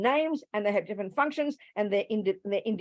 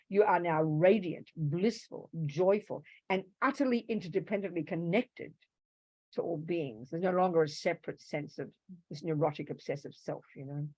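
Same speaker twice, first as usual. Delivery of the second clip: imitating guru talk; 4 dB quieter than usual. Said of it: "That's how they talk".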